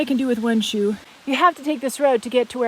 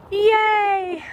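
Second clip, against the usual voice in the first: a high, loud yay of delight; excited cheer; 9 semitones higher, 5 dB louder than usual. Real, not acted. Cheering at the mountain view, high and loud. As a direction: cheer like you've finally made it.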